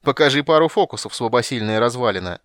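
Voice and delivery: full, loud, mocking taunt; Kitiara's ringing voice. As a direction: jeer it from the gallery. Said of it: "полнозвучный и сильный голос Китиары".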